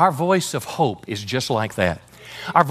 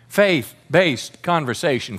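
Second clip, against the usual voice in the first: slow, drawn-out phrase; slow call for the congregation to repeat; slower than usual. Shown as a demonstration. Pastor leads the church in a slow echo. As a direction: say it slowly so the church can echo it. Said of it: "Everybody say it with me".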